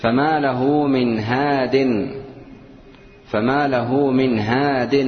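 slow measured recitation of the verse; slow Quranic recitation. Shown as a demonstration. Teacher reciting the verse for the class in slow measured recitation. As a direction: recite each word evenly, unhurried. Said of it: "recites verse slowly".

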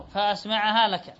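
single m after an open a in فأسمعها; lightened mim. Shown as a demonstration. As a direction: say فأسمعها as fa-asma‘ahā, unhurried. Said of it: "تخفف الميم". (فأسمعها بتخفيف الميم وفتح الهمزة)

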